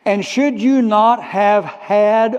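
had pressed slow and loud; slow down and hit had; stress on had. Shown as a demonstration. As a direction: had stretched with force. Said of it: "underline this word".

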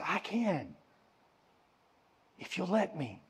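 very soft, unhurried reassurance; gentle hushed reply. Acted. Preacher voices the Savior answering our brokenness, softly reassuring. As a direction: answer the broken soul quietly.

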